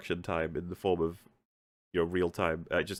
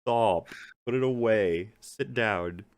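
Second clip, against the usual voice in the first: mock scolding; 3 semitones higher, 5 dB louder than usual. Scolding Gandalf as a crazy hobo.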